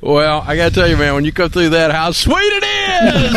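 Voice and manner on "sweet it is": high, slow, drawn-out cheer; excited shout. Real, not acted. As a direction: belt it out in celebration. Host cheering the couple's debt payoff.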